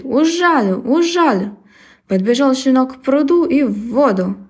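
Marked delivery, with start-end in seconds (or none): 0.0-1.6 buzzing bee voice. Acted. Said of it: "летит и жужжит".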